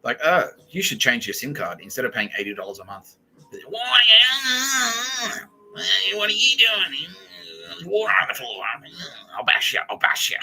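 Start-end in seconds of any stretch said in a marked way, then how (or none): 3.7-10.4 high, loud, strained outburst; mock angry yelling. Ranting about water on the floor, mock angry yelling. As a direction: yell it like a hammed-up household tirade.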